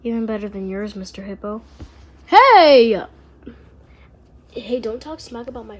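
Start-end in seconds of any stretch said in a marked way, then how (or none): 2.3-3.0 loud, sharp protest; defending a friend from teasing; indignant hey. Acted. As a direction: object right away. Objecting to insult about friend.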